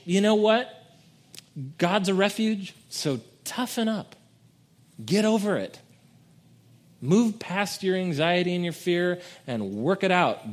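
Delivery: mocking a careless toughen-up god; mock tough-love dismissal. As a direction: brush off their fear like a gym bro. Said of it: "This message would be".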